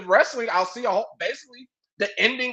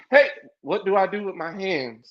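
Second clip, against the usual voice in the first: lightly voiced nervous race driver; a hint of an awkward interview; Ricky Bobby impression; 3 semitones lower than usual. Mocking Rey as a nervous driver on camera, lightly voiced. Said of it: "he sounded like Ricky Bobby".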